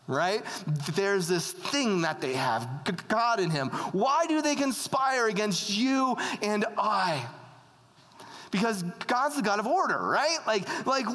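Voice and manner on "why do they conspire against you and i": mildly pleading, raised pitch; a higher, questioning appeal to God; acted plea, lightly anguished; crying out to God. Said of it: "he cries out to God".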